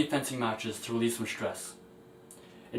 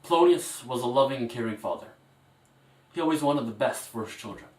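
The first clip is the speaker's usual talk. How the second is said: faltering tender eulogy. Acted. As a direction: speak gently, holding back tears. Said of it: "A very, very emotional moment".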